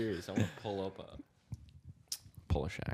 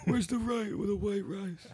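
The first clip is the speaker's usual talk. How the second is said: high-pitched, hammed-up Italian accent; mock Italian accent; 13 semitones higher than usual. Joking with friends about Poles lost camping, mock Italian accent. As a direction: put on a high Italian caricature. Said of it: "It's also an Italian accent".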